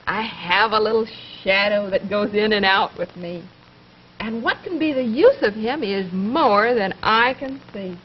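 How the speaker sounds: put-on lively rhythmic poem reading to a small child; poem for children. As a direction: read it like a nursery rhyme, bouncy and clear.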